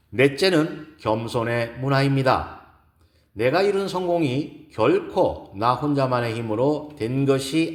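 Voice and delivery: measured keynote speech with emphatic key words; lightly voiced speaker making each point to an audience; poised woman lecturer. Gives a lecture in story. (차분하고 힘 있는 강연 말투)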